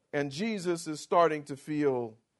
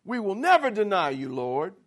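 eager agreement; 3 semitones higher, 5 dB louder than usual. Retold or imitated. Disciples pledging loyalty to Jesus, loud and eager. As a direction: sign on with gusto. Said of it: "all of them said".

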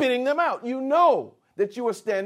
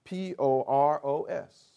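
spelling out letters; 5 semitones lower, 3 dB quieter than usual. Shown as a demonstration. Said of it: "It's spelled".

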